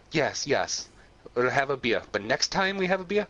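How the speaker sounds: lightly acted German immigrant; imitated German accent. Immigrant answers the man at the bar, German accent. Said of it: "with a heavy German accent".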